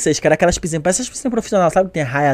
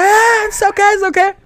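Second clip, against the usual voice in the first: very high-pitched mock celebration; hammed-up high cheer; imitated cheering crowd; 13 semitones higher than usual. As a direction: squeal like friends celebrating a surprise win. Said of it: "a galera comemorando".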